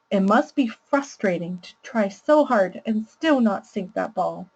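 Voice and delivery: low parent voice. Shown as a demonstration. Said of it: "I'll use a really low voice to read a parent's active listening".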